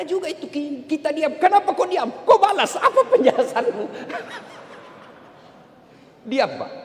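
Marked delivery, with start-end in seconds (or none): 1.4-3.9 hammed-up demanding wife; mock nagging wife. Wife nags silent husband to explain himself, mock demanding. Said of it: "ibu kalau ngomel". 4.8-6.7 breathy laugh through the word. Real, not acted. Preacher laughs giving husbands the answer, laughing.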